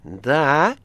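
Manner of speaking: loud, rising phone answer; sharp loud pickup; shouted. A narrator's reading. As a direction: bark a questioning hello. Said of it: "крикнул Варенуха".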